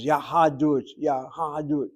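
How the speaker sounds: "Yahadut" spoken out syllable by syllable, ya-ha-dut; syllable demonstration. Shown as a demonstration. Teacher showing the extra syllable to students, "Yahadut" measured out as ya-ha-dut. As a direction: sound the half vowel in "Yahadut" as its own "ha". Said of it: "last syllable sounds like two syllables".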